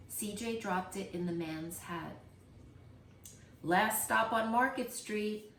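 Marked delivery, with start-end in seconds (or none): 3.6-5.5 louder call of the last stop; driver calling out. Acted. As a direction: announce the stop to the whole bus. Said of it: "Mister Dennis called".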